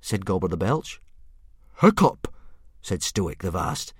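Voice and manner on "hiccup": high, loud falling disbelief; can't believe it; stunned. A narrator's reading. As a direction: Stoic stunned at his son's name. Stoic surprised.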